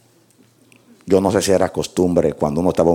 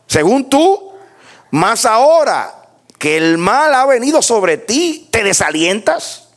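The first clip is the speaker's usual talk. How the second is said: high, loud, drawn-out pulpit challenge; preacher crying out a rebuke; accusing scripture declamation; 5 dB louder, slower than usual. Acted. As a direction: hurl Eliphaz's questions at Job, stretching key words. Declaims Eliphaz's challenge to Job.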